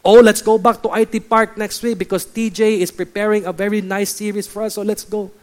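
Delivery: lightly acted churchgoer talking up next week; eager churchgoer. Churchgoer urging a friend along, mock-eager. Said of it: "They'll say".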